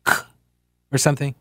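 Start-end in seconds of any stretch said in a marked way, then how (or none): 0.0-0.1 a short "k" click in place of "ch"; hard "k" version. Shown as a demonstration. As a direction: pronounce "k" as a bare hard consonant. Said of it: "does it become like".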